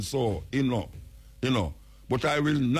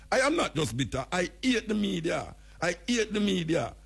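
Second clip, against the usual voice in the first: higher mock mayor voice, laughing at the end; 5 semitones higher than usual. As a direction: ham up the mayor's rant, then crack up. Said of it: "So him say".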